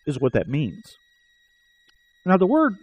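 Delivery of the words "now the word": ice in mouth. Real, not acted. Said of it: "I got a piece of ice in my mouth".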